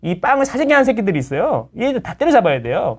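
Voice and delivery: lightly hammed-up YouTube demagogue; mock a shallow rabble-rouser stirring people up; a hint of an outraged online agitator; mock agitator rant. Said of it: "막 이런, 약간 이런 느낌이라는 거지".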